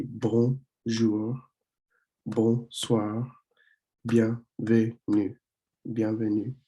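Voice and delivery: bonjour, bonsoir, bienvenue said slowly, syllables split as if clapped; slow, broken into syllables. Shown as a demonstration. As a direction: clap out each syllable. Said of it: "do the clapping thing".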